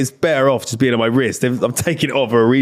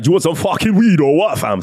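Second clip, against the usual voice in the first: imitating a dealer; 6 semitones higher than usual. Retelling a drug dealer offering weed in an alley, lightly voiced. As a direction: push the weed like a pushy dealer.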